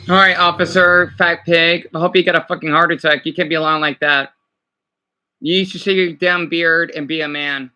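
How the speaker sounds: heated rant. Real, not acted. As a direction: tear into him, full of rage. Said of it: "I got a little heated".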